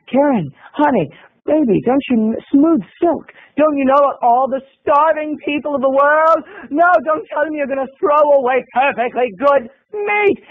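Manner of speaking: lightly voiced smarmy roommate; mock sweet talk.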